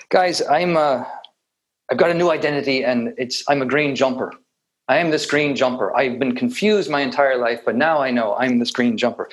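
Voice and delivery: a light mock Irish accent; playful put-on Irish lilt announcing a new identity. A teacher mocking identifying with a jumper, in a light Irish accent. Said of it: "put in my Irish accent".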